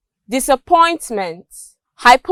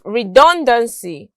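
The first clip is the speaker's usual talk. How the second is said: "redundancy" stressed on DUN; second-syllable stress. Shown as a demonstration. Teacher illustrating the C Y rule, "redundancy" stressed on its second syllable. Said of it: "stressed on their second syllable".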